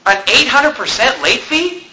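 high squeak of outraged disbelief; shocked disbelief. Retold or imitated. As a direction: react like you can't believe the bill. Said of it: "I'm like".

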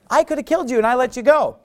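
high, half-hearted yell from afar; mock distant call. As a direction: call it across a distance without really shouting. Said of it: "he's yelling from far away".

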